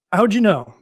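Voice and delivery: a playful gotcha yelp; mock surprised. Telling a friend how he reacted, mock surprised. Retold friend catching him out.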